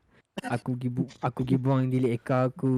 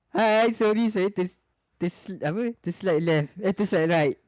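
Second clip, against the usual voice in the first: put-on high girlish voice; 5 semitones higher than usual. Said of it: "dia cakap apa tau".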